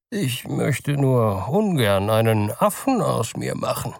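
slow, a hint of an old man complaining; lightly voiced old man. Old man objects to his father, lightly voiced and slow. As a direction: grumble mildly and slowly.

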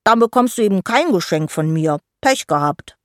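lightly voiced huffy boy; a little petulant; mild sulky comeback. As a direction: withhold it with a touch of spite. Troll boy withholds the present.

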